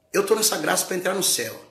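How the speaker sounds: high, loud proclamation; proclaiming. Acted. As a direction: declare it to the church. Preacher proclaims loudly.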